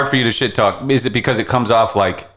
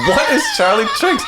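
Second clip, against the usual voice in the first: surprised; 11 semitones higher than usual. Retold or imitated. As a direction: shout it out, puzzled. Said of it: "And we're like".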